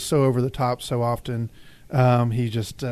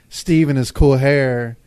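slow, louder teasing drawl; 4 dB louder, slower than usual. Retold or imitated. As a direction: drawl it out like a smug heartthrob. Mocking Steve's cool-guy charm.

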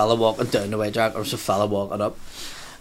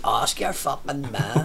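slow dismissive retort; 2 semitones higher, 4 dB quieter, slower than usual. Retold or imitated. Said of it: "so just like".

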